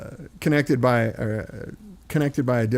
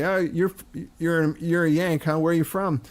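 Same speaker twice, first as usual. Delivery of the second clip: mildly curious pub question, slightly raised pitch; imitated London pub local; 4 semitones higher than usual. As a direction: lightly mimic a Londoner sizing up an American. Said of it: "two guys would say".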